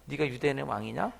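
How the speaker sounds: soft, taunting mock question; quiet sneer. Roman soldier quietly mocking Jesus, sneering. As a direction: needle him quietly with "네가 유대인의 왕이냐?". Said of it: "톡톡 치면서".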